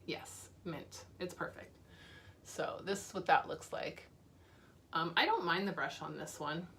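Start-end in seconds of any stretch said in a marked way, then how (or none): 0.1-1.8 soft whisper. Real, not acted. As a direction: whisper it to yourself. Repeats it's perfect, then whispers.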